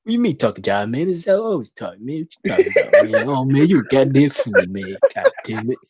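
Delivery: a hint of hammed-up jive talk; lightly voiced jive slang, barely changed; bad jive talk. Teased about jive, replies in mock jive talk. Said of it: "the worst jive talk I've ever heard".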